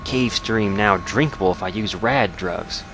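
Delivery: put-on journal read in a light Southern accent; terse survivor's log with a slight Southern twang. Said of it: "unintentional Southern accent".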